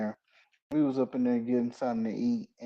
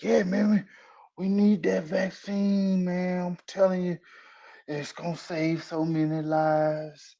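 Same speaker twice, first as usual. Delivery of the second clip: imitating the scrubs guy; 4 semitones higher than usual. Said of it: "And he's like".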